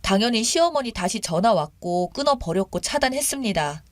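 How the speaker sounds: usual speaking voice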